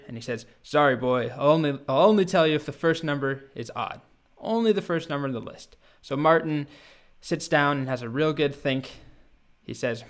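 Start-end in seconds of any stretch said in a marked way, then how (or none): 0.6-5.7 louder, insistent storybook dragon; mock anger, leaning hard on the refusal; angrier dragon. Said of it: "the dragon gets angrier".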